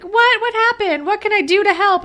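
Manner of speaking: high, loud, over-eager questions; mock shock. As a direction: imitate a nosy girl rushing to help. Voicing over-eager Jenna butting in.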